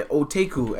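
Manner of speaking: "otaku" said as oh-TAY-koo; mispronounced otaku. Retold or imitated. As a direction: mimic the wrong "otaku", with TAKE in the middle. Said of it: "you couldn't even pronounce otaku".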